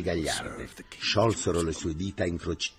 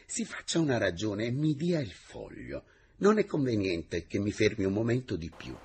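firm, a little louder, no tenderness; firm refusal; 7 semitones higher, 5 dB louder than usual. Acted. Teacher firmly ends the secretary's courtship. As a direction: close the matter kindly but decisively.

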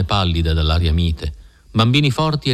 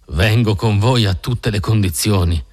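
slow, mildly emphatic acceptance. A narrator's reading. Ferrier accepts the Mormon leader's conditions, emphatic. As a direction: stress "Vengo con voi a tutte le condizioni" slowly, in an altered voice. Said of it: "con un'enfasi tale che i serissimi anziani".

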